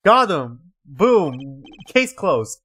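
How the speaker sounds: triumphant laugh, loud and smug; gloating laugh. Acted. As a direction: crow over a win. Gloating in character.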